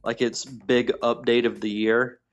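tinny phone line; calling in over the phone; tin can phone sound. Real, not acted. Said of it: "sounds like he's in a tin can".

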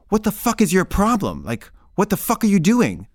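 angry outburst. Retold or imitated. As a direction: retell it as an agitated, incredulous confrontation. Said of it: "I just got mad".

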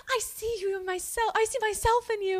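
mocking the granddaughter. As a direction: parody her sappy confession. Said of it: "she's like".

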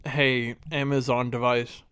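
eating while talking; talking through a mouthful; mouth full. Real, not acted. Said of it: "Sorry, I'm eating some".

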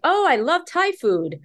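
high, slow, cheerful mock voice of a clueless person; clueless acquaintance. Author imitating someone who confuses Taiwan with Thailand, high and drawn out. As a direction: play the oblivious fan gushing over Thai food.

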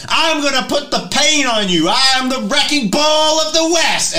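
high, loud hammed-up robot boast; robot wrestler voice. GM voicing the robot boasting at the party, high loud hammed-up. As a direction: bellow it like a cartoon wrestler robot. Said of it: "With that voice".

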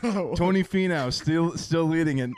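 golf commentator voice; mock sports announcer. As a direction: report it live from Augusta. Mock live golf report.

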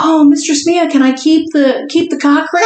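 lightly voiced eager client; pleading client. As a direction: ask like a hopeful kid begging for a trophy. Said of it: "he was like".

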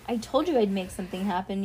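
plain reading voice

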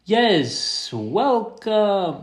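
high, loud announcer welcome; sports announcer. Pretend. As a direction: boom it out like ring announcer. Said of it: "trying to sound like a sports announcer".

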